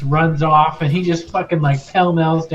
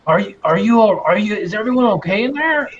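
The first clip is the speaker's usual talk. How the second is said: higher, hesitant questioning; concerned guard; 5 semitones higher, faster than usual. Acted. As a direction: stumble over anxious questions through the door. Wary guard checks on the prisoners.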